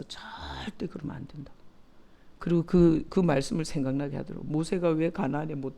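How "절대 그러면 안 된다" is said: whispered, as if the Lord speaks it softly; hushed whisper. Retold or imitated. Recalling the Lord's inner warning to herself, whispered. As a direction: breathe it as a soft inner warning.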